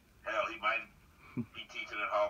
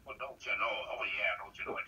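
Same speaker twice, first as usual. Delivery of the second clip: put-on Minnesotan accent; 3 semitones lower than usual. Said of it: "you gotta talk like this right here".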